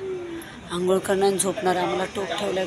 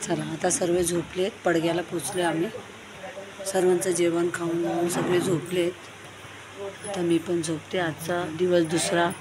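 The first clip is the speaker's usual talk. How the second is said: quiet at night; 3 semitones lower, 6 dB quieter than usual. Real, not acted. Everyone asleep, late at night.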